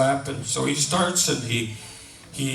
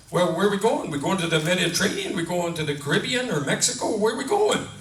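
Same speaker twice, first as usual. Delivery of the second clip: eager questions climbing in pitch; eager husband; 3 semitones higher than usual. Acted. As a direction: play an excited husband firing off questions. Husband eagerly guesses holiday destinations.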